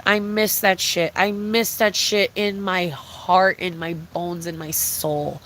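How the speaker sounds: slow, fading wistful longing; slow nostalgic sigh of longing; wistful nostalgia. Real, not acted. Nostalgic about old YouTube.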